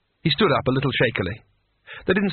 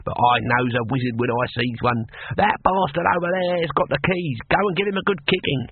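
put-on old man voice.

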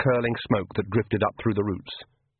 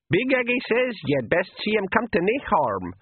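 put-on higher old pixie voice; 10 semitones higher than usual. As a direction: squeak it out like a wee pixie.

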